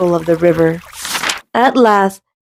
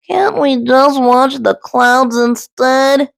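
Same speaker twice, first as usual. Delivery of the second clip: honked; 5 semitones higher, slower than usual. Acted. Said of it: "honked Goose".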